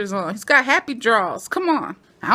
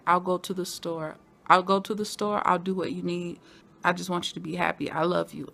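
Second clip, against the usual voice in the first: soft, low voice, mildly tender; gently tender; 4 semitones lower, 5 dB quieter than usual. Retold or imitated. Imitating mother making peace with her son, soft tenderness. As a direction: give in quietly, as a loving parent.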